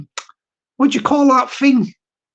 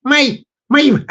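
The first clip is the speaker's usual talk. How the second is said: slightly raised mock Irish voice; Stevie Boy; 3 semitones higher than usual. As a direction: try out an Irish impression. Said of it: "probably sounds a bit like".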